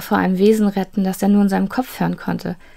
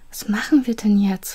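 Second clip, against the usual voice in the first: anxious whisper; 3 semitones higher than usual. Acted. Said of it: "fragte er ängstlich".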